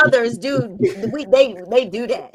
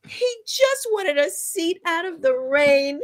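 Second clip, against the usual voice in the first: mock excuse; 5 semitones higher than usual. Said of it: "they're like".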